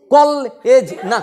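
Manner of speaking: কলেজ drawn out very slowly, syllable by syllable; teacher's slow-motion demo of কলেজ. Shown as a demonstration. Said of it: "slow কর".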